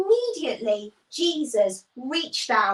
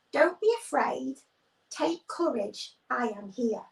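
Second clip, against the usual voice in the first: calm reassurance; 4 dB quieter than usual. Acted. Jesus calming his frightened disciples, softly reassuring. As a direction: gently settle their fear, softer each phrase. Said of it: "spoke lovely and calmly".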